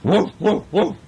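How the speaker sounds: eager little puppy woofing for attention; puppy barking. Acted. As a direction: yap eagerly like a small puppy. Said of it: "the little puppy went".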